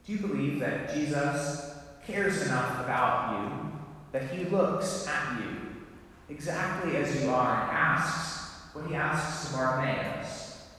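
a tender pastoral invitation; gentle appeal. Real, not acted. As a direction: draw them in quietly. Intimate direct appeal to listeners.

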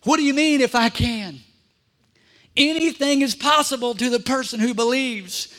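a rising, booming rebuke; perturbed Jesus. Acted. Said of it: "Look what he said".

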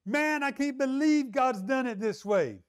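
high, drawn-out indignant complaint; upset. Retold or imitated. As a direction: act out exasperated disbelief, slowly. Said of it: "His attitude's upset".

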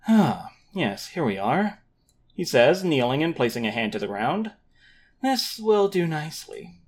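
measured scene-setting narration; story narration. A narrator's reading. GM reads the opening scene.

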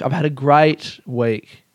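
slow, deliberate "great week"; slow measured "I've had a great week". Shown as a demonstration. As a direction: draw it out slowly.

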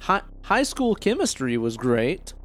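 a hint of mad scientist; reanimator voice. Shown as a demonstration. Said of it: "Like a reanimator voice".

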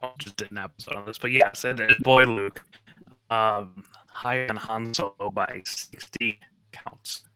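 cutting in and out; choppy connection audio; breaking up. Real, not acted. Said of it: "you're breaking up there".

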